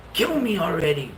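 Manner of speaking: mumbled sleep-talking plea; eerie mumbled plea. Retold or imitated. Wife murmurs in her sleep, eerie sleep talk.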